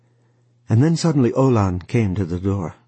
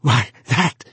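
indignant outcry, a bit louder; cried out; 5 semitones higher, 4 dB louder than usual. A narrator's reading. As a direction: protest in disbelief. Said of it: "he cried".

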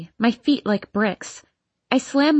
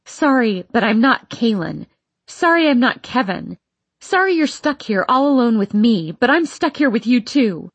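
getting louder; 2 semitones higher, 4 dB louder than usual. Acted. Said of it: "louder and louder".

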